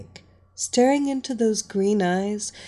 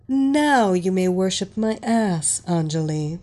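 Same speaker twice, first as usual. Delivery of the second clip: louder imperious order; commanding; 3 dB louder than usual. Acted. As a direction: give the order like a queen. Mistress commanding her slave.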